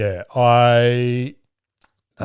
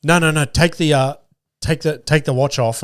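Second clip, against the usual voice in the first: retold flustered interruption, pitched up; light mock panic, higher voice; mildly panicked; 5 semitones higher than usual. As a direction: imitate someone hurriedly stopping a mistake. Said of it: "she starts panicking".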